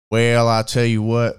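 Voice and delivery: lightly put-on country twang; a hint of Southern country accent. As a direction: imitate a folksy Southern twang. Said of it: "you got that twang about you".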